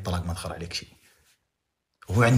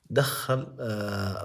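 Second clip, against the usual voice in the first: ordinary delivery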